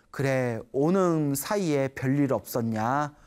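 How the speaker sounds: slow, lightly voiced gentle Buddha. Buddha greeting the arriving monk, slow and gentle. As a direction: ask kindly and slowly, already knowing the answer. Buddha kindly asks after them.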